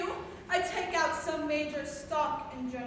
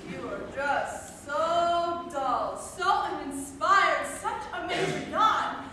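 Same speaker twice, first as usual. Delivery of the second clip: bored drawl; much slower than usual. Acted. Mocking a dull person.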